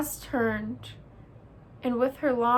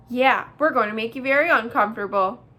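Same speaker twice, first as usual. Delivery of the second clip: echoing brother bear; 7 dB louder, faster than usual. Acted. Brother bear echo, louder and fast.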